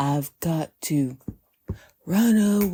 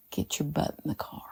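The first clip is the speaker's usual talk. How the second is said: stern mother; 11 dB quieter than usual. Retold or imitated. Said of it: "And she says".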